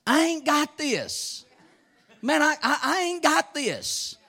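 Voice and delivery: slow laughing confession of not coping; laughing admission. Retold or imitated. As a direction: flip the boast into a chuckling admission. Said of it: "you say".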